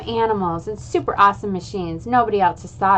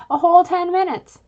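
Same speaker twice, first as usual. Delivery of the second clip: "A whole ten minutes" higher, leaning hard on "whole"; exasperated echo; 8 semitones higher, 4 dB louder than usual. A narrator's reading. Boy griping about dad's dinner speech, exasperated. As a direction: pile on the disbelief at "whole". Kid exaggerating dad's long talk.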